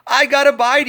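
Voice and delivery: high, loud cry of a first bite; excited shout. Acted. Piggy shouting to Dad as the fish bites, excited. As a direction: yell it out, thrilled. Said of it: "he shouted".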